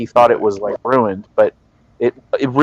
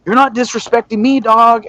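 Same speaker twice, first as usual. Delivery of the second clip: tough guy voice; 7 semitones higher than usual. Retold or imitated. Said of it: "he'd be like".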